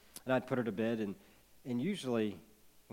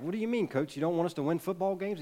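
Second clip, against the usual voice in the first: higher, lightly voiced disbelief; surprised players; 6 semitones higher, 3 dB louder than usual. Players question coach's new philosophy, mock disbelief. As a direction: ask it like confused teammates. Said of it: "And they're like".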